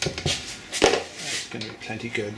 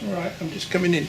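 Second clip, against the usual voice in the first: raised, quick reply to someone far off; yelling across the room; 6 semitones higher, faster than usual. Real, not acted. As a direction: call back across the house. Answers call from another room.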